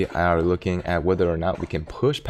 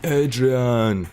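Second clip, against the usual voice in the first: yelling Adrian like Rocky Balboa, higher; Rocky impression; 7 semitones higher, much slower than usual. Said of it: "Italian Stallion".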